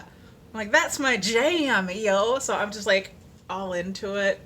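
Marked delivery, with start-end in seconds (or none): 0.7-2.4 slow, loud, hyped-up exclamation. Retold or imitated. Churchgoer greeting her favorite song, hyped and loud. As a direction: hype it like your song dropped.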